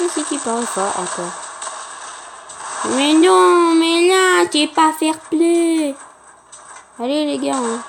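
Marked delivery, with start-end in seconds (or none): 3.0-6.0 raised, drawn-out complaint; whiny protest. Real, not acted. Gamer scolding an opponent as not fair play, whiny protest. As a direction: wail that it is unfair.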